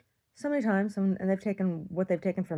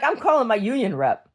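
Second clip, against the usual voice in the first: dog's voice; 8 semitones higher, 8 dB louder than usual. Pretend. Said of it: "he's like".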